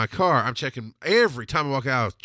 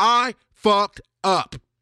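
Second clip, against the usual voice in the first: very slow, loud, furious, with heavy emphasis; 8 semitones higher, 5 dB louder than usual. A dad admitting his mistake while his hungry infant keeps crying, loud and angry. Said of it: "I emphasize that loudly and angrily".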